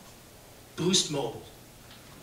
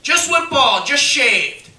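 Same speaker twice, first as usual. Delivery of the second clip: imitating friend; 6 semitones higher, 7 dB louder, much slower than usual. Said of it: "he was like".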